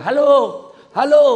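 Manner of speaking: high, very loud hello; yelling. Retold or imitated. Villager holding the phone upside down yells for an answer, yelling. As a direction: bellow hello into a backwards receiver. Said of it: "Teriaklah dia".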